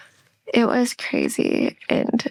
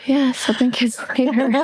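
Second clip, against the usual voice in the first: laughing as she repeats it; amused repeat with a laugh; 3 semitones higher than usual. Real, not acted. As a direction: laugh through the words.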